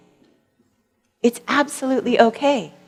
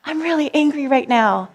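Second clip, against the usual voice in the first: put-on inner child; 5 semitones higher than usual. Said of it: "my little Shauna's coming to me and saying".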